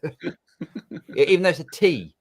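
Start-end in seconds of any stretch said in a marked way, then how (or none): 0.0-0.4 "risotto" with the T turned into a D; American pronunciation. Retold or imitated. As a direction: say "risotto" as ri-ZOH-doh, mimicking Americans. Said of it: "you have to pronounce it as a D".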